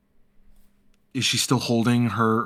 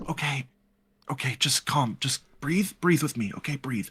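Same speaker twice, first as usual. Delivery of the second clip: soft, higher, gentle coaxing; soothing a friend; 3 semitones higher, 4 dB quieter than usual. Acted. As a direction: talk someone gently through their panic. Character calms a trembling friend.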